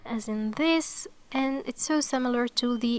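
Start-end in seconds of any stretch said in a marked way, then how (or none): 0.5-1.1 "this" drawn out, voiced th. Shown as a demonstration. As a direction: say "this" slowly with a buzzed th. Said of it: "pronounced like the T H".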